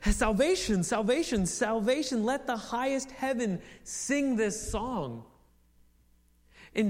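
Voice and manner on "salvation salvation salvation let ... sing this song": salvation called out three times, then the line slowed; song of praise. Shown as a demonstration. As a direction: lift it like a hymn. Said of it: "join the song of praise".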